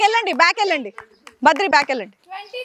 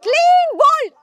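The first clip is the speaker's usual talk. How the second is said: higher, lively call of the wicket; excited cricket commentary; 5 semitones higher than usual. Real, not acted. Announcing clean bowled dismissal.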